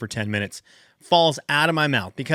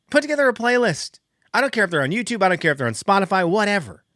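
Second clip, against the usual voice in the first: higher, pleading rant at teachers; exasperated plea; 6 semitones higher, faster than usual. Real, not acted. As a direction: beg them, half exasperated.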